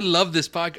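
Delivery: put-on Australian accent. Host defending his review reading, mock Australian accent. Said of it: "in my best Australian accent".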